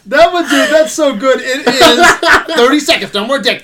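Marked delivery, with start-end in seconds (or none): 1.4-3.6 excited movie quote. Retold or imitated. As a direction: relish each word like a favourite catchphrase. Gleefully quoting a favourite line.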